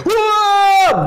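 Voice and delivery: high, loud cry of alarm; sudden scared cry; panicked yelp. Retold or imitated. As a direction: yelp in terror at the crash. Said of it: "או".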